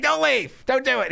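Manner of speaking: lightly imitated begging; mock pleading. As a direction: beg him to stay, high. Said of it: "She's like".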